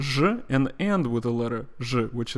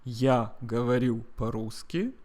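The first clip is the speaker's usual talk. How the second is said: repeat-after-me model; 4 dB quieter than usual. Shown as a demonstration. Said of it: "Repeat after me".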